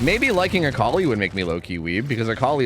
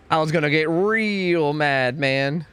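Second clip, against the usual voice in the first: slow, stretched "real mad" with a touch more push; drawn-out mock anger; much slower than usual. Shown as a demonstration. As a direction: stretch it out like a mild mock grumble. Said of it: "repeated, slower and louder".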